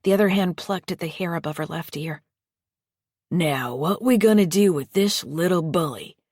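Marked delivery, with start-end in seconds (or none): 3.3-6.2 menacing foster father. Acted. Lester menaces Bertie.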